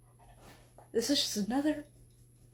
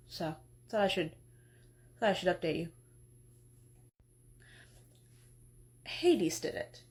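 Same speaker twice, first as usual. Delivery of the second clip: a lightly lowered, drowsy husband voice; sleepy Hephaestus; 5 semitones lower than usual. Acted. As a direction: mumble it like you just woke up.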